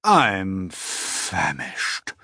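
slow, lightly voiced old grasshopper. Old grasshopper complaining of hunger, slow and drawn out. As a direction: stretch it like a starving old insect.

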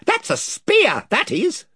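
rough, eager island chief, rambling on; a lightly voiced gossiping chief, wheedling. A narrator's reading.

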